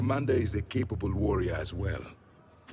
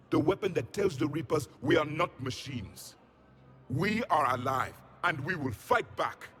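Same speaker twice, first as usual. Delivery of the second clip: raised, stirring call to fight on; rousing speech; 6 semitones higher than usual. Acted. Javik rallies the frightened asari, rousing. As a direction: lift them up and rally them.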